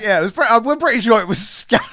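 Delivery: laughing mock reply. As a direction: play it as a giggly fake confession. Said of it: "We're just like".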